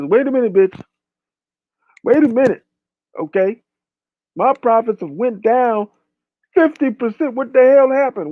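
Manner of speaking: high-pitched mock outrage; indignant outburst. Acting outraged meat industry boss.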